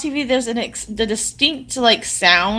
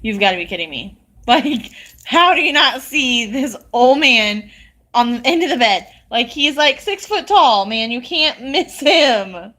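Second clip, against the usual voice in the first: retold exasperated disbelief. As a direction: protest to a husband in amused disbelief. Disbelief at husband not seeing man.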